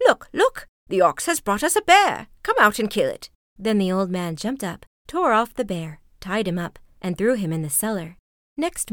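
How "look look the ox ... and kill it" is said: high, loud, urgent calling; excited cry. A narrator's reading. Old woman shows her husband the bear, crying out. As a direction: raise the alarm, pitched way up. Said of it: "she cried".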